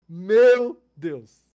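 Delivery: loud, startled outcry; surprised exclamation. Real, not acted. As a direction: blurt it out in disbelief. Exclaiming at absurd scam detail.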